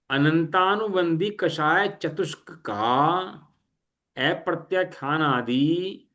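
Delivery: slow, phrase-by-phrase dictation; formal definition reading. Real, not acted. Teacher reading a scriptural definition to the class, slow and measured. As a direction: read it out deliberately, stretching each phrase ending.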